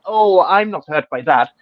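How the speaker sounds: airy mock indifference; sarcastic. Mimicking the stranger's sarcastic tweet, mock airy. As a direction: toss it off like a sneering troll. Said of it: "But now I get the sarcasm".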